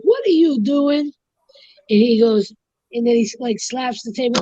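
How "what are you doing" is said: higher, sharp hotel manager; manager's demand. Retold or imitated. The hotel manager confronts the bartender, sharp and higher. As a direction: confront him at the bar. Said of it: "she's like".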